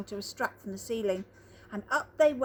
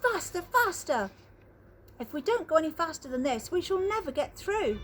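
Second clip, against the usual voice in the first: higher, hurried urging; eager urging; 5 semitones higher than usual. Acted. A touch of excited rush. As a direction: push the lift on with glee. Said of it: "cried Mister Wonka".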